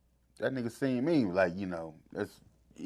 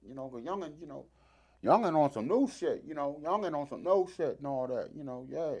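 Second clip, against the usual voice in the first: a higher, lightly put-on Boogie voice; imitating Boogie; 5 semitones higher than usual. Retelling Boogie praising the young Congo player, higher mock voice. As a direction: tease his hero's way of talking, voice raised. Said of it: "Why you sound like".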